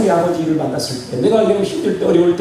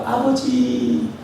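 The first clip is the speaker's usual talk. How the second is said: whiny drawn-out call; 4 semitones higher, 3 dB quieter, much slower than usual. Pretend. Whiny selfish child calling.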